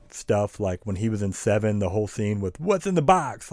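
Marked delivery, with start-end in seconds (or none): 2.6-3.5 high, loud hammed-up "What's in the box?"; mock Brad Pitt. Mocking Brad Pitt's scene in Seven, overacted and high. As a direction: ham it up like bad screen acting. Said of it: "such terrible acting".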